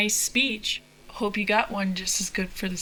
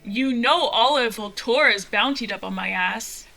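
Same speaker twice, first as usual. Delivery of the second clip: alarmed protest; 4 dB louder than usual. Acted. Pilot protesting the order to retreat north, louder and alarmed. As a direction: balk at the order and push back hard.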